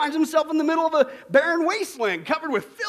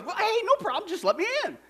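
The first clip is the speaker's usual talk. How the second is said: politician; 9 semitones higher than usual. Acted. Politician voiced in joke.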